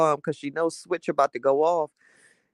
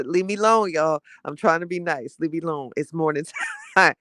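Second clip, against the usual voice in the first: mock warning. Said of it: "I can say".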